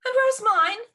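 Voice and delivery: high, loud, haughty demand; demanding Lucy. A narrator's reading. Sister Lucy demanding her bag, high and loud. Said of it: "she demanded".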